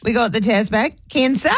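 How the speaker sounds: bad news lifted into a question; Australian uptalk. Mock doctor in Aussie uptalk, rising. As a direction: let Cancer rise like you're unsure. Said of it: "they go up at the end of a sentence".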